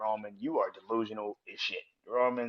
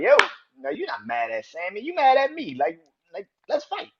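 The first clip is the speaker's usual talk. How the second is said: imitating Kevin Owens; 10 semitones higher, 7 dB louder than usual. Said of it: "comes out and is like".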